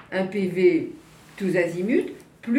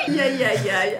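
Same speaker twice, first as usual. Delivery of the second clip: laughing; 7 semitones higher, 4 dB louder, slower than usual. Real, not acted. Laughs at number of girlfriends.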